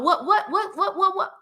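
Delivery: laughing, stuck repeating what; stuttering. Real, not acted. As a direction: stumble over the word what, laughing at herself. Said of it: "Stuttering like my daddy".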